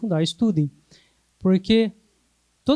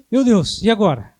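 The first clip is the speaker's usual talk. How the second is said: louder, flustered panicking therapist; mock panic; 6 dB louder than usual. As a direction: play the lost beginner who panics. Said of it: "se é uma pessoa que não sabe". (terapeuta em pânico fingido, mais alto)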